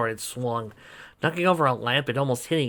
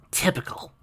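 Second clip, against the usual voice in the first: mourned; 7 semitones higher than usual. Acted. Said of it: "Sugarcoat mourned".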